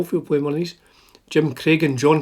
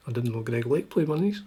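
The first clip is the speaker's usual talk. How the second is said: softer surprised whisper to himself; 5 dB quieter than usual. Real, not acted. Vlogger whispering surprise while reading the list. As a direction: whisper it as a private aside.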